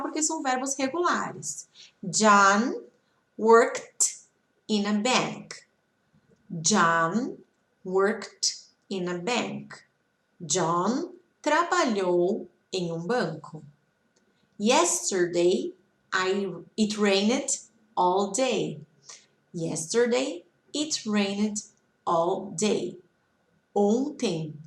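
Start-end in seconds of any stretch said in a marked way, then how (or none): 2.0-9.7 word groups apart, with rising pauses; slow model reading. Shown as a demonstration. Teacher reading examples for students to repeat, slow and spaced out. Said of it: "vocês podem repetir". 14.6-23.0 slow, with a pause after each chunk; slow model reading. Shown as a demonstration. Teacher reading examples for students to repeat, slow and measured. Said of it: "vocês podem repetir".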